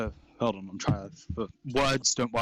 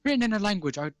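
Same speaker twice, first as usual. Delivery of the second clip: gnome shopkeeper; 3 semitones higher than usual. Acted. Gnome offers rare book.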